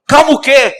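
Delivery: high, loud indignant snap; outraged retort. Acted. Husband snapping back at his wife, outraged.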